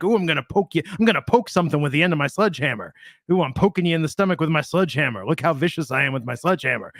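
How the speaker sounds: lightly voiced sledgehammer-wielding bully; mock menace, only slightly put on. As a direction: play-act a silly threat with a sledgehammer. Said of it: "is that your sledgehammer voice".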